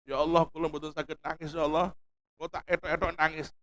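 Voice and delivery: humble hushed prayer. Shown as a demonstration. Preacher acts out a humble prayer to Allah, hushed and pleading. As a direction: pray softly like a servant who cannot cry. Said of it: "Pura-pura nangis kepada Allah itu bagus".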